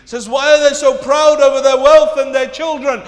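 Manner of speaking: loud, high rhetorical question; projected, insistent preaching; forceful challenge. Real, not acted. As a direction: challenge the congregation with it. Same question repeated at full force.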